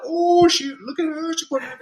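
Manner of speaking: put-on very high-pitched teenage girl squeals; imitated girls going crazy. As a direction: mimic girls excitedly ripping apart outfits. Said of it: "they were just going crazy".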